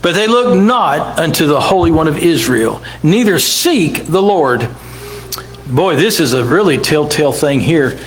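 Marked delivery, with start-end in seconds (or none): 0.0-4.7 measured preacher's reading voice; scripture reading. Acted. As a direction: read it out like holy writ. Preacher reads Isaiah aloud.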